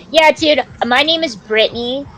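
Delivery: slowed-down, badly faked New Jersey accent; horrible Jersey accent. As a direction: fake a New Jersey accent for a mock confession. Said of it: "that was a horrible Jersey accent".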